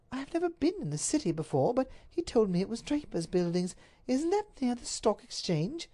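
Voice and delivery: high, earnest lady's voice; innocent duchess. Acted. Duchess tells the Duke where she was taken, high and earnest. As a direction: tell it plainly, bewildered.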